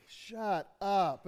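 delighted gasp of "Shut up." with the pitch falling on "up"; a teen who can't believe her new car; thrilled disbelief. Retold or imitated. Teen daughter gets a brand new car, thrilled disbelief. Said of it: "two different stories where they have the same words".

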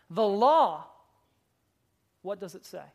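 Jesus pointing the lawyer back to scripture, loud then softening; voicing Jesus. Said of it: "Jesus' response would have been this".

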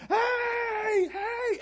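high, loud shouts of hey; calling out. Retold or imitated. Father running to his lost son, shouting hey high and loud. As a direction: call across the field to the son. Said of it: "he's probably screaming".

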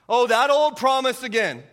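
acted scoffing, loud and high; Sarah. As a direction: imitate a dismissive scoff at a stale promise. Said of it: "she must have thought".

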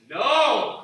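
high, loud flat refusal; roommate shouting no. Pretend. Roommate refusing to talk about Jesus, a loud high no. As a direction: slam the door on it.

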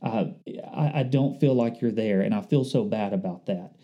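soft, fading mock of a tearful prayer; mom breaking down. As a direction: quietly voice a mother near tears. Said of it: "she started breaking down".

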